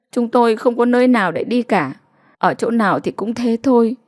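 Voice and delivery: a hint of a despairing village wife; lightly voiced resigned mother. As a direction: explain your trap, worn down. Mother pleads her helplessness.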